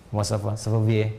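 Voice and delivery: low, slow imitation of a Frenchman; lightly put-on French accent, drawn out; French accent impression. Shown as a demonstration. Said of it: "Kayak orang Prancis".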